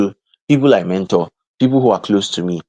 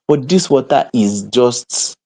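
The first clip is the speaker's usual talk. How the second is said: usual speaking voice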